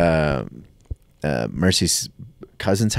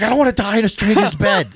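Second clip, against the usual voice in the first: higher, fast, laughing through the words; laughing panic; 14 semitones higher, faster than usual. Retold or imitated. Telling a friend about her edible panic, laughing through it. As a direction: blurt it out while cracking up. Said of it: "And I was like".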